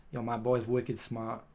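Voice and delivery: a slow, lightly put-on Boston accent; bad Boston accent. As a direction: toss off a half-hearted Boston local accent. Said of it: "That's probably a really bad accent".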